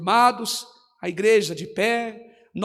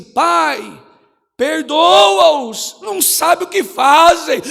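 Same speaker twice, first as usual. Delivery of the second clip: mild cry; 4 semitones higher, 5 dB louder, much slower than usual. Acted. Jesus on the cross.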